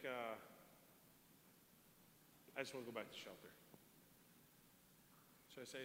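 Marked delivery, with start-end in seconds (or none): 2.6-3.5 low, soft retold plea; imitated small, withdrawn voice; retold subdued plea. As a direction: voice his timid request, quiet and low. Retold frightened man pleading softly.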